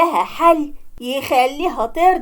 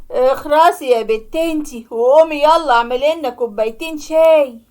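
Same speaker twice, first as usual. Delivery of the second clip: angry order; 3 dB louder than usual. Acted. Father snaps at daughter.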